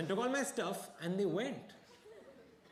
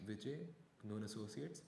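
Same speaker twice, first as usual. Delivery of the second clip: ordinary talk, nothing marked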